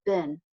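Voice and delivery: "bin" said with a short vowel; reduced pronunciation of been. Shown as a demonstration. Teacher showing students how people say it, reduced "bin". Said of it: "people pronounce it just as".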